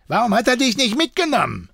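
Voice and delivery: quick, high-pitched angry questioning; angry demand. A narrator's reading. Deserter interrogates bound Benoit, angry demand. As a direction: fire the question angrily at the prisoner. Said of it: "fuhr er Benoit böse an".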